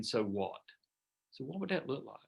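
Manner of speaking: soft caring tone. Shown as a demonstration. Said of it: "it's tonality".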